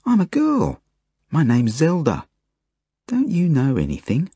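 put-on high-pitched child's protest; interrupting little girl. A narrator's reading. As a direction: set them straight in a high, indignant child voice. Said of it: "she interrupts".

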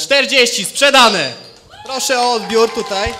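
loud, laughing sold call; auctioneer. Real, not acted. Closing the auction sale. (głośny licytator, ze śmiechem)

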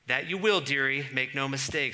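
put-on a knowing older creature warning a child; lively Mrs Beaver reply. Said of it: "said Missus Beaver".

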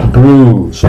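"Bruise" as long "brus", no I; stretched, falling u in "Bruise"; silent I. Shown as a demonstration. Teacher repeats for learners, "Bruise" with silent I. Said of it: "la I no suena".

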